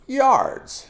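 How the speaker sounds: "Yards" very high, falling steeply; exaggerated falling tone on "Yards"; fourth tone. Shown as a demonstration. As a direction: punch "Yards" high and loud, then drop. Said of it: "fourth tone".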